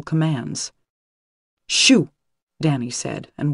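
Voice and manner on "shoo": high, loud shooing shout. Acted. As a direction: shoo it off sharply. Shooing the dead boy away.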